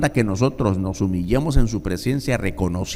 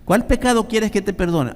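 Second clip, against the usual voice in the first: higher, gentle puzzled question; the Lord puzzled; 9 semitones higher than usual. Acted. The Lord to the sinner, gently puzzled. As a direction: ask as if you do not remember.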